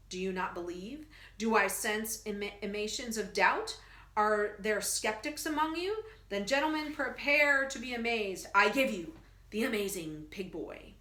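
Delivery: lightly voiced carnival professor; showman barker. Professor presenting the pig boy, lightly hammed showman. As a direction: pitch it like a sideshow barker.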